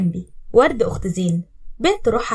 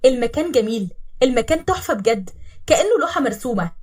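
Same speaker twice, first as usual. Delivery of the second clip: lifted, louder voice full of wonder; smiling amazement, building in pitch; awed admiration; 3 semitones higher, 4 dB louder than usual. Acted. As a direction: marvel aloud at the view, louder. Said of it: "ابتسمت وأنا بتكلم بانبهار".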